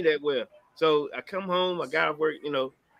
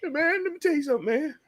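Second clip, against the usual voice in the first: choked up; 13 semitones higher, faster than usual. Retold or imitated. Dad about to break news.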